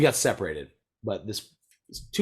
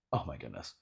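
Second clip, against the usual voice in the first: hushed awe; 8 semitones lower, 11 dB quieter than usual. Real, not acted. Awed aside.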